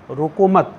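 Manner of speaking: "रोको मत" joined, ending in a clear stop; stop after मत. Shown as a demonstration. Teacher marking where to halt, stop right after "मत". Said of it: "यहाँ रुकना है".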